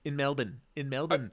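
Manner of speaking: Melbourne echoed as MEL-bun; local pronunciation. Retold or imitated. Echoing co-host's question, playful local pronunciation. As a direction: play along with Australian MEL-bun, r dropped. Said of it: "how they do there".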